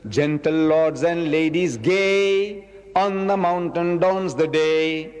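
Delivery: put-on slow, sing-song recitation of an old school poem; poem recital. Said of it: "It says".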